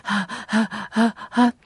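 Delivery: short shallow panting breaths; shallow breathing. Shown as a demonstration. Showing listeners how tense breathing sounds, short panting. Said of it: "呼吸というのは浅くなってる".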